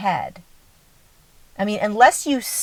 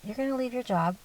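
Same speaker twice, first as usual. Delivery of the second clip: a softer, gentle knowing tone; calm higher self voice; 3 semitones higher, 8 dB quieter, faster than usual. Retold or imitated. Speaker voicing higher self to a listener, softly calm. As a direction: soften it like a quiet inner knowing. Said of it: "the higher self voice".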